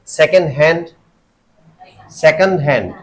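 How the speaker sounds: सेकंड हैंड with हैंड stressed, first rising, then falling; stress on HAND. Shown as a demonstration. Teacher showing compound adjective stress, stress on हैंड. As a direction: give हैंड the weight after सेकंड. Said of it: "हैंड वाले पे आ रहा है".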